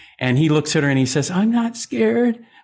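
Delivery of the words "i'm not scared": put-on trembling bravado, very high and quivering. Retelling a recorded scene where a kid character answers: imitating Timothy E. Day's quivering voice. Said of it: "he has a quiver in his voice".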